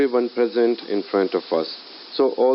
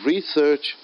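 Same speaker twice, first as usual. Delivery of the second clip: RE-search with the weight on RE; stress on first syllable; 5 semitones higher than usual. Shown as a demonstration. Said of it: "I'm stressing more on the word re".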